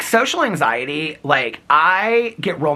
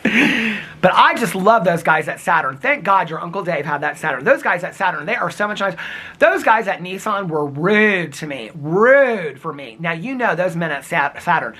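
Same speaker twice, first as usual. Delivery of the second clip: lightly voiced mom, slow; a hint of his mother gushing; imitating mom. Mom praises the Saturn staff, lightly imitated. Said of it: "This is how my mom would talk".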